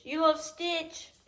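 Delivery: high, slow cooing question. Real, not acted. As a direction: coo it to the puppy. Cooing to dog.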